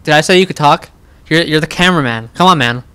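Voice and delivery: loud scolding bark; harsh barking commands. Acted. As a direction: snap at the cameraman. Scolding the cameraman.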